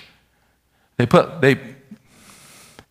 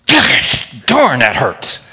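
mock pained kid; much slower than usual. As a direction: play a hurt third-grader after the ruler. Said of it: "You didn't say that".

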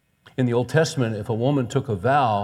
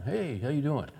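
friendly, not mad; 3 semitones higher, 6 dB quieter than usual. Retold or imitated. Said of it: "And I wasn't mad, I wasn't angry".

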